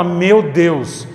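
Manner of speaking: an impressed visitor asking where you learned it; amazed outsider. Retold or imitated. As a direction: wonder at hearing your own language. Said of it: "quem chega de fora e fala".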